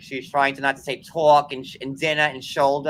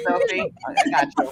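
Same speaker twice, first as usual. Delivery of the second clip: high squeaky voice. Acted. High playful.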